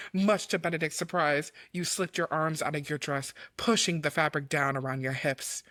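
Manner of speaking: measured romance audiobook reading; composed storyteller voice; story narration. A narrator's reading. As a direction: read the love scene aloud, evenly and deliberately. Reads fan fiction aloud.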